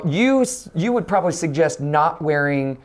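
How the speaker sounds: ordinary talk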